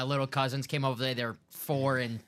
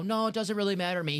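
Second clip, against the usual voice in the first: high, mock-modest shrug; mock humble; 7 semitones higher than usual. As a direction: fake humility, lifted pitch. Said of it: "They all try to do the humble".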